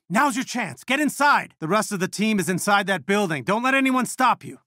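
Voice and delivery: high-pitched, pressing orders; urgent command. Acted. Commander sending heroes inside the building, urgent command. Urging team into enemy building.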